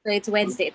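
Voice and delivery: Wednesday said as "wenzday", D silent; so it's "Wednesday", no D sound; Wednesday without D. Shown as a demonstration. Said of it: "we do not pronounce the word as".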